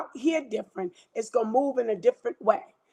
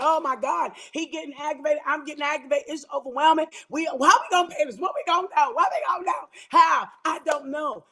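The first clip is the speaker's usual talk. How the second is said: panicked worry; 3 semitones higher than usual. Acted. Acting out frantic couple over bills.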